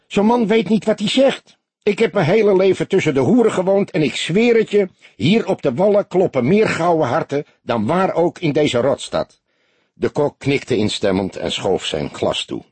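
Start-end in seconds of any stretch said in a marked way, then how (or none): 0.1-9.4 indignant outcry. A narrator's reading. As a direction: defend the girls with heat. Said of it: "riep hij verontwaardigd".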